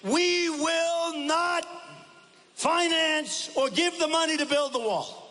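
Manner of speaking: high, slow, outraged ex-president mimicry; mimicking Mexico's ex-president raging about the wall; mock angry Vicente Fox. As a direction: ham up a furious Fox refusing to pay. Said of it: "And he said".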